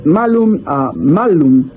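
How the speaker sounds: malum first with a short a, then with a long a; vowel length. Shown as a demonstration. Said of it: "no es lo mismo". (malum con a corta y luego a larga)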